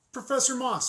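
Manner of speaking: high, loud call to get her attention. Acted. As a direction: hail her down the hallway. Calling after a colleague.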